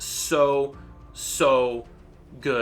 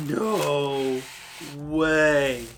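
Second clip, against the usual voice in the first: much higher, louder, slow shrieks of shock; stunned disbelief; 11 semitones higher, 5 dB louder, much slower than usual. Real, not acted. Vlogger unboxing the Death Eater mask, shrieking disbelief. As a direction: squeal in disbelief at the reveal.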